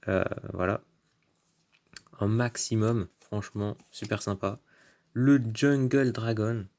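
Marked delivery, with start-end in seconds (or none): 5.1-6.7 slow put-on English accent. Shown as a demonstration. Announcing a card to viewers, put-on English accent. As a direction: stretch the name out in an English accent. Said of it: "j'ai pris l'accent anglais pour le faire".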